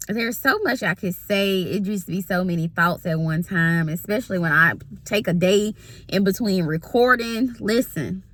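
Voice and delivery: talking around gum; words through a mouthful of gum; chewing gum. Real, not acted. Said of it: "I had some gum in my mouth".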